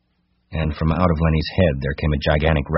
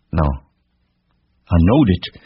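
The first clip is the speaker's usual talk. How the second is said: put-on slow, childlike relieved cry; 3 semitones higher, 4 dB louder, much slower than usual. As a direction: draw it out excitedly. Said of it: "Lenny cried".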